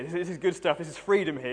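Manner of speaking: stubborn mock-joyful cheer; mock triumph. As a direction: cheer yourself on through the food. Student forcing down more cheesecake.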